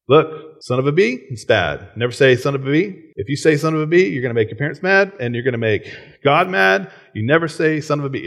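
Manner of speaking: put-on high, earnest little boy voice, lightly done; a small child sternly warning a friend; imitating little kid.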